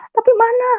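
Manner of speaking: high-pitched demand to God; tearful angry protest. Retold or imitated. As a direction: reenact crying out at God in anger. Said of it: "Saya nangis, saya marah".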